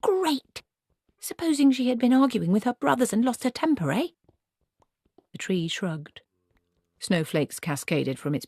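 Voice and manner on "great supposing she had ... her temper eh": hooted with rage. A narrator's reading. Granny raging at the tree over the girl's danger. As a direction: shriek it like an outraged owl. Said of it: "Granny hooted with rage".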